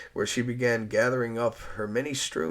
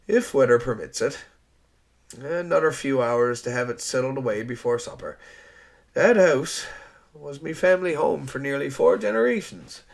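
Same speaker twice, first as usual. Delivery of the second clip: louder Newfoundland man, firm; hearty island storekeeper; 3 semitones higher, 6 dB louder than usual. Acted. Rogers explaining the house delay to Eliza, firmly. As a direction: lay it out plainly, proud of the islands. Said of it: "thumped Rogers".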